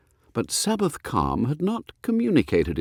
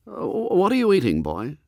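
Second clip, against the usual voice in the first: demanding; 11 semitones higher than usual. A narrator's reading. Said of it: "demanded Mister Pett".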